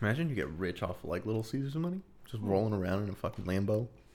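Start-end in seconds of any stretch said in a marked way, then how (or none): none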